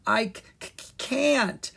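high, halting stutter; stammering. A narrator's reading. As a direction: stick on the first sound, then push the word out. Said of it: "Leon stammered".

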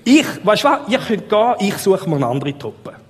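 high-pitched, hammed-up exasperation, then dropping back; mock fed-up. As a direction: pretend exasperated outburst, pitch jumping high. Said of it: "Jetzt will man meinen, Jesus sagt, „Ich hab die Nase gestrichen voll".

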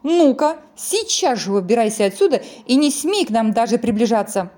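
loud, scolding order; angry shout. Acted. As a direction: drive him off angrily. Snowmen chase piglet away.

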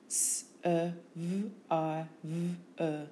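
S-E-V-I-V-E as separate phonemes; sound by sound. Shown as a demonstration. Teacher showing phonemes, S-E-V-I-V-E sound by sound. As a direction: sound out S-E-V-I-V-E with gaps.

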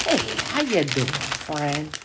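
big hearty hey to a buddy; loud greeting. Retold or imitated. Man greeting his friend before drinks, loud and hearty. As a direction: call out warmly across the room.

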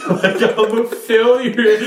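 high, laughing fake sob; laughing mock wail. Crying to friends, high laughing wail. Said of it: "I started bawling, crying".

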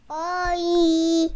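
drooling. Real, not acted. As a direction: mouth on the microphone. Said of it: "Você tá comendo o microfone".

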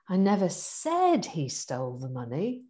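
he lifted and stressed. Shown as a demonstration. Coaching demo of one sentence, stress on he. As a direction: hit the word he. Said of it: "them teaching us this on the coaching course".

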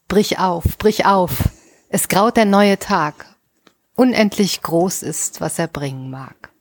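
measured reading with pauses between lines; poem recitation. Acted. Reciting Karin Boye's poem to open the podcast, measured poetic reading. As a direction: recite it line by line, letting each phrase settle.

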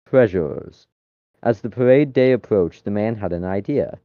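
reading a silly story aloud, steady pace; story narration. Acted. Friend reads a chatbot story to friends, storytelling voice. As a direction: tell it like a bedtime tale.

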